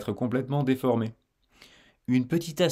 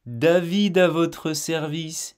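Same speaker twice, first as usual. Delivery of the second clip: slow linked phrasing; 5 semitones higher, slower than usual. Shown as a demonstration.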